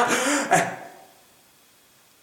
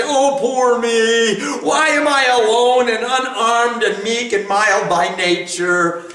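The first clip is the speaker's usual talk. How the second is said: mock self-pity. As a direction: play the meek victim, dragging it out. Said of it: "self-conceit and self-deprecation".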